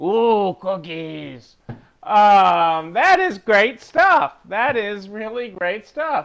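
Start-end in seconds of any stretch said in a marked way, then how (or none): 0.0-1.6 put-on furry puppet monster character voice. Show the person you are talking to your best Cookie Monster voice. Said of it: "that's my best Cookie Monster voice".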